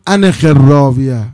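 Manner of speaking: slow, loud order in Hijazi Arabic; drawn-out Hijazi Arabic command; Hijazi dialect. Acted. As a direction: quote it deliberately with a Hijazi accent. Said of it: "حضرت به لهجه حجازی صحبت کردن".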